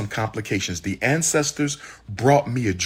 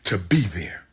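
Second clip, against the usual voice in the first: angry. Real, not acted. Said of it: "he's really angry right here".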